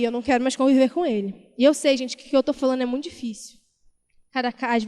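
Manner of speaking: usual speaking voice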